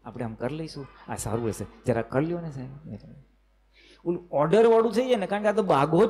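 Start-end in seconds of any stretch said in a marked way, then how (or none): 0.1-3.0 requesting tone. Retold or imitated. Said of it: "requesting મોડમાં tone હોય".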